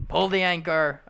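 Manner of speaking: loud, high captain's order; shouted command. Acted. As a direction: bark the order across the deck. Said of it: "shouting commands".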